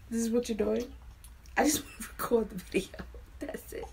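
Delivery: fast whisper broken by a laugh; real whispered aside; exasperated whisper. Real, not acted. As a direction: whisper it half-laughing in frustration. Same whisper, repeated footage.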